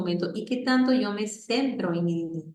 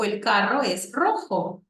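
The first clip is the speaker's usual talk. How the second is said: slow modelling; slower than usual. Shown as a demonstration. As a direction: spell out the phrase for the child.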